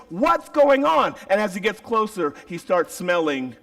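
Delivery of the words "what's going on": high, slow, puzzled call; a father wondering what's going on. Retold or imitated. Father hearing the party, puzzled.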